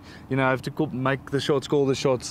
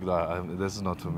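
mild dismissive aside; 9 semitones lower, 7 dB quieter than usual. Retold or imitated. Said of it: "I was like".

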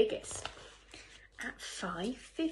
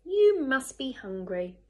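loud, hearty sympathy; friendly concern; 3 semitones higher, 11 dB louder than usual. A narrator's reading. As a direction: welcome them in with big, friendly emphasis. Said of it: "said the friendly ladybird".

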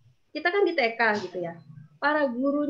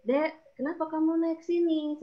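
slow, gentle question, slightly raised pitch; 4 semitones higher, slower than usual. Acted. Kindergarten teacher to a child who climbed up, gentle voice. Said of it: "Dengan suara yang lembut".

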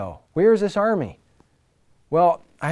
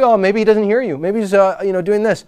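higher, louder mock taunt; 5 semitones higher, 6 dB louder than usual. Elijah taunting the prophets of Baal, mocking. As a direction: imitate Elijah needling his rivals. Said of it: "Elijah's mocking him".

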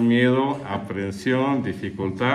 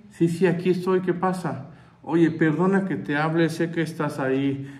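higher, eager wife asking a favour; wife's voice; 3 semitones higher than usual. Retold or imitated. Wife phoning her husband in the sauna, higher and coaxing. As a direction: play the sweet-talking wife, pitched up.

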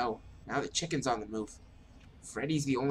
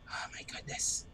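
whispered; 6 dB quieter than usual. Real, not acted. Whisper in fear.

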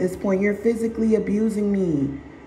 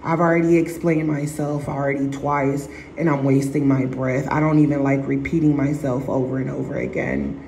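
dismissive inner voice; 6 semitones lower than usual. Retold or imitated. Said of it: "So now you look to the side".

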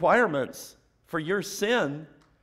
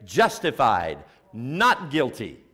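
judge's verdict; 3 semitones lower, 5 dB louder, slower than usual. Retold or imitated. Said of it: "and say".

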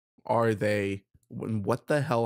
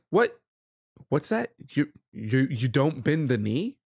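lightly acted haughty disbelief; incredulous questions, lifting at the ends; indignant attitude; 2 semitones higher than usual. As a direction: act mildly affronted, as if owed deference. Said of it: "it's that attitude".

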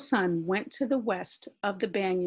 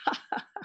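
soft, brief chuckle; laugh; 5 dB quieter than usual. A narrator's reading. Shade laughs at searching Little Sun, soft laugh. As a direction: laugh quietly, in character. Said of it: "He heard Shade laugh".

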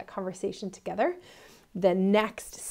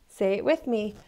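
usual speaking voice

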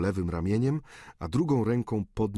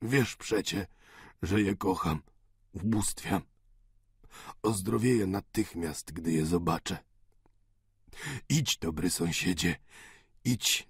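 put-on softened, subdued old man's tenderness; lightly voiced dying father. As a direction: bless a friend with fading strength. (łagodny, przygaszony głos umierającego ojca)

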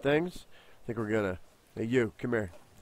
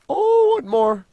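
high, loud burst of glee; thrilled find; excited; 9 dB louder, slower than usual. Real, not acted. Finding another.

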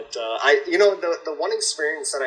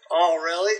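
higher-pitched mock girlfriend reaction; mimicked girlfriend; 7 semitones higher than usual. Man mimicking his girlfriend's reaction to the show, mocking. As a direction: imitate her, pitched well up.

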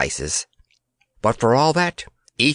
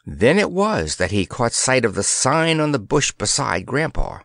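ordinary delivery

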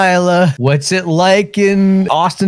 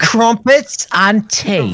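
mock British accent; slower than usual. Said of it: "Keep saying that".

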